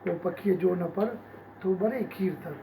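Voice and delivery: measured verse reading, lines set apart by pauses; ghazal recitation. Acted. Poet shares ghazals with appreciative listeners, measured recitation. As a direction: recite couplets, lifting some repeats.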